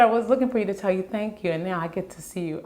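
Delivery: fast, welling-up retelling; getting emotional. Real, not acted. Wife quoting the drummer's thanks to her husband, getting emotional. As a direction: push on quickly through the emotion. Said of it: "Oh, I'm getting emotional".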